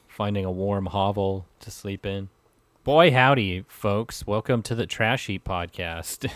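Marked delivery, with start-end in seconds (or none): 2.8-6.3 podcast host intro. Pretend. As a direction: boom it out like a radio host. Mock podcast host opening.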